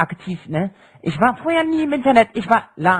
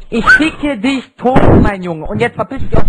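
berserk rage; 6 dB louder than usual. Real, not acted. Raging teen in voice chat fight.

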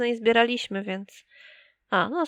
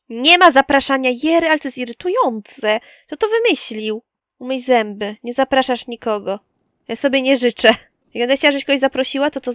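loud, bossy mock-parent scolding; playfully cross telling-off, voice raised; irritated scolding; 2 semitones higher, 6 dB louder than usual. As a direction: lay down the law, louder and annoyed. Scolds game characters, forbids inviting.

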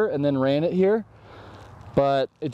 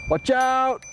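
mock warning shout; 9 semitones higher than usual. Warning a rider on Clark Street.

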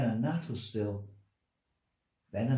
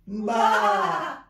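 loud high bleat; sheep bleating; 10 semitones higher, 8 dB louder, much slower than usual. Acted. Sheep Fleecy, Flossie and Flummox chatting in bleats. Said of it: "They said".

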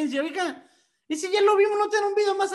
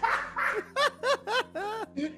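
high-pitched burst of laughter; high squealing laugh; 13 semitones higher than usual. Real, not acted. Host cracks up.

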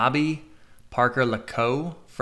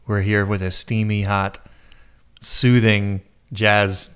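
sexiest DJ voice; 2 semitones lower, 7 dB louder, slower than usual. Pretend. Host playing radio DJ on request, sexy DJ voice. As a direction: croon it like a late-night jazz DJ, drawn out. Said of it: "give me your sexiest D J voice".

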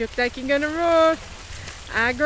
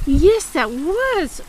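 slow warm agreement; 4 dB louder, much slower than usual. Real, not acted. Praising horse.

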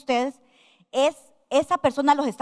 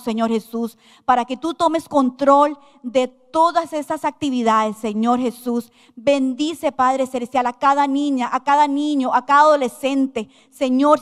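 fervent pastor's prayer, building force. Acted. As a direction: pray earnestly over the children. Leads the children in prayer.

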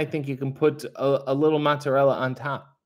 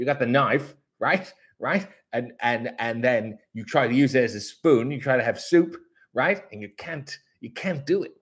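a light, goofy take on Harley Cameron. Retold or imitated. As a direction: play her as a cheerful airhead, lightly voiced. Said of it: "this is my Harley Cameron impression again".

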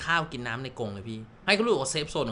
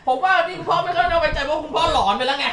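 laughing tease; 11 semitones higher, 7 dB louder than usual. Real, not acted. Teasing the dad, laughing.

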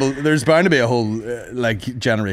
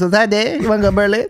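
high, lazy hipster dude voice; bored ironic hipster; 9 semitones higher, 3 dB louder than usual. Retold or imitated. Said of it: "goes all hipster voice".

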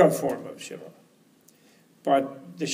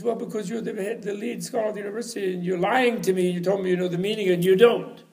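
lightly acted, higher-pitched reproach; accusing cleaning lady; 6 semitones higher than usual. Cleaning lady accuses lead scholar of lying, higher acted reproach. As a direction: reproach him as the cleaning lady, building at the end.

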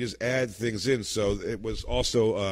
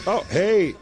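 loud boss greeting; 7 semitones higher, 7 dB louder than usual. Acted. Boss voiced in sketch.

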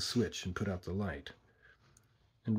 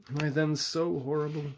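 higher, rising plea; anguished question; 6 semitones higher than usual. A narrator's reading. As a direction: ask it wounded and pleading. Monster pleads with frightened woman.

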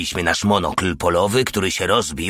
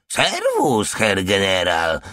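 cat meowing; slower than usual. Acted. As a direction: meow the greeting. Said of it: "miałknął". (kot miauczy do generała, wysoko)

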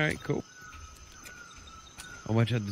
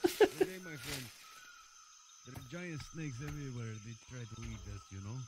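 put-on accented game pirate; 2 semitones lower, 16 dB quieter than usual.

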